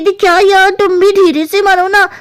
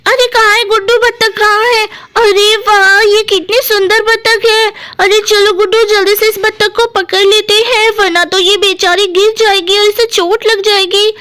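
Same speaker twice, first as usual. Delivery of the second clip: slightly raised, mildly surprised sister; lightly voiced Pakodi; 2 semitones higher than usual. Pakodi asks Guddu where the duck is, mildly excited. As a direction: lightly act waking up to exciting news.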